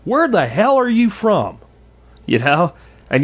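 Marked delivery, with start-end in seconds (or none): 0.0-1.6 high barking drill sergeant yell. Retold or imitated. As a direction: bark it like a drill sergeant grilling a recruit. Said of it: "one of the drill sergeants said".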